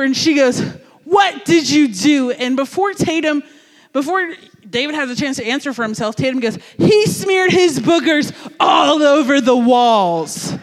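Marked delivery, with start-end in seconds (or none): 1.0-2.3 stern demand. Retold or imitated. Teacher confronts the boy. 6.8-10.5 put-on slow, loud tattling of a know-it-all kid; tattletale yell. Classmate tattles loudly.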